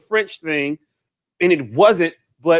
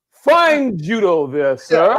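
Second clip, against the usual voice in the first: mock polite; 3 semitones lower, much slower than usual. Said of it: "he said".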